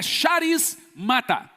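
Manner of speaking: "charis mata" broken in two with a gap; word split in parts. Shown as a demonstration. Preacher breaking down the Greek for the church, "charis", pause, "mata". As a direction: separate "charis" from "mata" to show the root. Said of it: "Em outras palavras".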